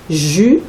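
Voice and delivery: "ju-" cut off short as a lone syllable; first syllable isolated. Shown as a demonstration. Teacher isolating the first syllable for a child, clipped. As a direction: break off after "ju-" to show the sound. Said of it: "ça commence comme".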